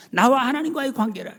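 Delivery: 나와 하나님과의 관계라 said high and loud. Real, not acted. Preacher proclaiming forgiveness, high loud proclamation. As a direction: lift 나와 and proclaim it. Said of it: "repeated statement, raised".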